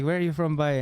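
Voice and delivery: imitated Northern Irish or Scottish mix; Northern Irish accent. Production manager asking where he's from, mixed Northern Irish accent. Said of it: "it could have been Scottish".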